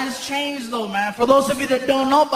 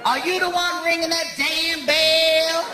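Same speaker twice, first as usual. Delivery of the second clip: higher, sharp clerk scolding; annoyed clerk; 4 semitones higher than usual. Retold or imitated. Night clerk scolding the late guest, higher and sharp.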